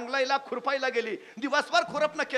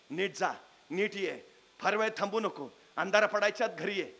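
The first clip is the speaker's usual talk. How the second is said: tender mother; 4 semitones lower, 3 dB quieter than usual. Acted. Mother blessing son on leaving.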